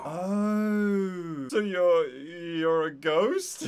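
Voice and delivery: surprised. Real, not acted. Startled player meets a ghost.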